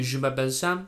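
attempted French accent on the phrase. Shown as a demonstration. Correcting his friend's French introduction, French accent. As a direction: show how to say it with a French accent. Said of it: "in a somewhat French accent".

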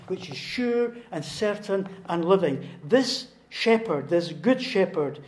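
loud, insistent list building in force; rousing sermon climax; emphatic preaching. Real, not acted. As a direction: drive each phrase home from the pulpit.

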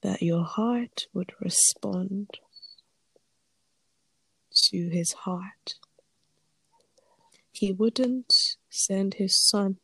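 whispered, holding back tears; teary voice. Real, not acted. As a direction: voice thick with tears, hushed. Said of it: "pardon me if you hear my voice get teary".

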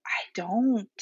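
whispered aside. Real, not acted. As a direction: breathe it as a secret. Whispered aside about cleaning.

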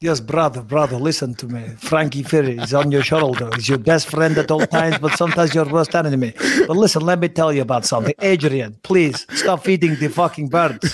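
put-on lightly done Dagestani Khabib accent; a hint of Khabib quoting Rocky; mild Dagestani accent as Khabib. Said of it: "can you do Rocky quotes as Khabib?".

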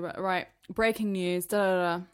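mock a stern breaking-news announcement; hint of an authoritative news anchor. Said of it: "so kind of serious and authoritative".

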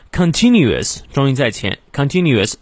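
"continuous" stressed on "tin"; early stress. Shown as a demonstration. (“continuous”重音靠前)

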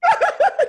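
loud high mock sob; hammed-up wail breaking into laughter; llanto fingido. (sollozo agudo y exagerado)

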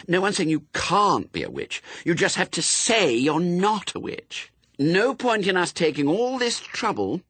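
high, pleading big-sister reasoning; desperate. A narrator's reading. Pepper pleads with her little sister, desperate. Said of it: "said Pepper desperately".

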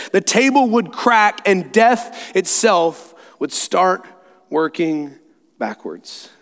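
expound a mystery, slowing sharply at the end; grand lion sage. Acted. Aslan explains deeper magic.

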